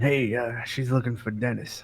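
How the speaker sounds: close, very hushed half-whisper, barely audible. Telling a friend who is being looked for: half-whispering in someone's ear. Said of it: "whisper in his ear".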